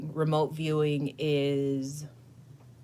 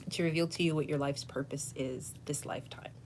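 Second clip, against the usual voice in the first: hushed solemn whisper; a hushed whispered charge; 5 dB quieter than usual. Real, not acted. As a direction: breathe it out, secret and serious. Solemn challenge to viewer.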